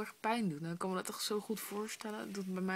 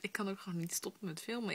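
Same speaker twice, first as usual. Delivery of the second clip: whispering. Real, not acted. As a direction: whisper it under the covers.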